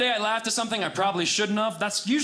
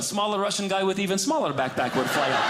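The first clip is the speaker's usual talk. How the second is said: put-on Russian accent. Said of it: "There's the accent".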